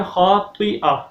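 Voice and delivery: "خَاطِئَةٍ" with throaty kh and heavy t; correct kha and taa. Shown as a demonstration. Teacher models the letters, "خَاطِئَةٍ" with heavy t. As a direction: thicken both consonants of "خَاطِئَةٍ". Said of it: "اور طا".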